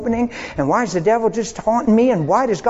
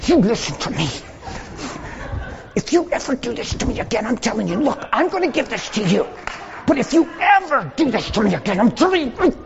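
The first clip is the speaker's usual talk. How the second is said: stern parent; 4 dB quieter than usual. Retold or imitated. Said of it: "the parent goes".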